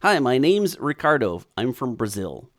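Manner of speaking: lightly hammed-up Spanish accent; a visitor's greeting in a mock Spanish accent. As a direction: read it in a put-on Spanish accent. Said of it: "Spanish accent".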